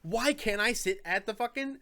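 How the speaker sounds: high, loud, drawn-out whine of protest; mock indignant complaint. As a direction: play an outraged customer, hammed up.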